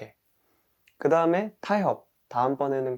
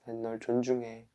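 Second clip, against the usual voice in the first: respectful; 2 semitones lower, 9 dB quieter than usual. Pretend. Speaker shows respect to the self, softly reassuring. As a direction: say it quietly and sincerely. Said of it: "그 다음에 존중을 하는 거예요".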